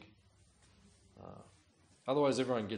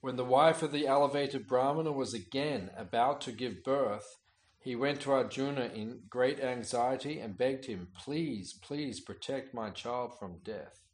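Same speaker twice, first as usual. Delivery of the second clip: measured, declaiming read of a sacred text; scripture reading; 4 dB louder, slower than usual. Acted. Teacher reading scripture aloud to his class, declaiming. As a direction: read the holy story out to the listeners.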